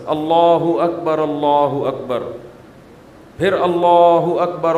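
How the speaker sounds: اللہ اکبر said short and slow, no long drag; short correct call. Shown as a demonstration. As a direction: demonstrate a brief, measured call. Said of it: "مختصر اذان دیں".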